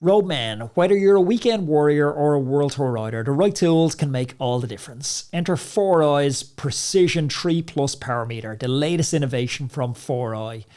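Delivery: ad read. Acted. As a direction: sell the power meter like a radio spot. Reads a sponsor ad.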